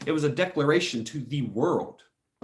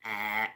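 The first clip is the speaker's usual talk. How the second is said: short sustained "ah" sound; imitated instructor noise; 5 dB quieter than usual. Shown as a demonstration. Showing the obnoxious drill-instructor sound, imitated at moderate volume. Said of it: "it's kind of like".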